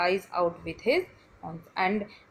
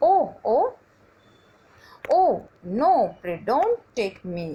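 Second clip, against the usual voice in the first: pleading goat; 3 semitones higher, 4 dB louder than usual. Acted. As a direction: beg the troll not to take you. Little goat begs the troll.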